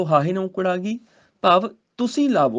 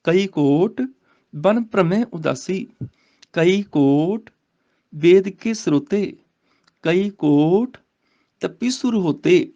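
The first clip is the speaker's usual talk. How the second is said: slow, measured verse reading; scripture recitation; 3 dB louder, much slower than usual. Shown as a demonstration. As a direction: recite the sacred verse, drawing out the words.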